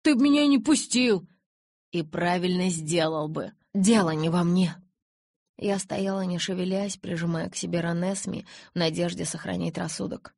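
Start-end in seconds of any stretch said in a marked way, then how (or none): 0.0-4.8 loud quarrel voices; heated shout. A narrator's reading. Jacob and Edward shouting at each other. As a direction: throw it back hard.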